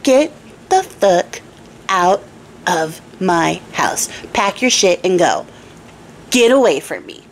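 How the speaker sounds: slow, dropping to cold low; banishing king. Acted. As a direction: throw her out, cooling to contempt.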